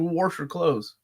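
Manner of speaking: "wash" with an added r, like warsh; Kentucky r slipped into "wash"; Kentucky pronunciation. Shown as a demonstration. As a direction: say "wash" as "worsh". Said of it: "in Kentucky, too, I've seen".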